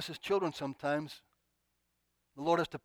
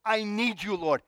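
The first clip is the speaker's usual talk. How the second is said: raised, heartfelt appeal; acted crying out; 4 semitones higher, 5 dB louder, slower than usual. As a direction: call out to God in need. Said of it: "As soon as we cry out".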